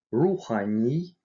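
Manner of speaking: "рухани" with a hard, back oo; hard vowel. Shown as a demonstration. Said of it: "В твёрдых словах читается твёрдо". (твёрдое «у» в слове «рухани»)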